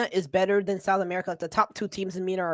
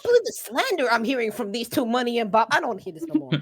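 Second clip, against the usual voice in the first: heated yelling; 4 semitones higher, 5 dB louder than usual. Real, not acted. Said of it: "make me yelling".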